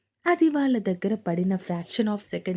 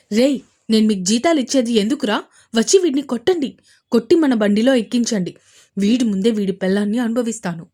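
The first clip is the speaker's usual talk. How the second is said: louder and fast, barking orders with a sneer; sneering shouted orders; 7 dB louder, faster than usual. Acted. Villain Arun shouts at his own men, sneering. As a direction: yell at the men to grab him, nastily. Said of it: "అన్నాడు వంకరగా నవ్వుతూ".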